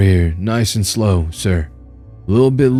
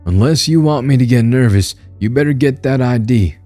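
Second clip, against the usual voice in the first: much higher and louder warning; threatening cop, raised voice; 6 semitones higher, 4 dB louder than usual. Acted. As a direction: push him before the gun comes out. Cop threatens, hand on gun.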